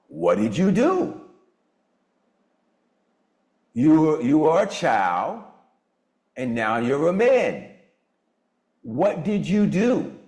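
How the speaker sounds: slow, drawn-out questioning, acted; insistent questioning. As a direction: press the point word by word, unhurried. Presses listener with repeated question in retold dialogue.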